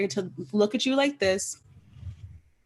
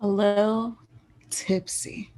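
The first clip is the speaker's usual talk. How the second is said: whispering; slower than usual. Acted. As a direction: drop to a whisper on tipsy. Echoing "a little tipsy" with a laugh.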